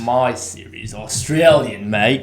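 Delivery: playful put-on Australian twang; Australian accent. Co-host imitating his Australian Siri, mock Australian accent. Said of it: "that's a pretty good Australian accent".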